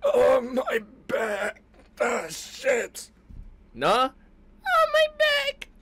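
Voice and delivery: put-on slow, pained old-timer groan; old man groaning. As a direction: groan like an aching grandpa.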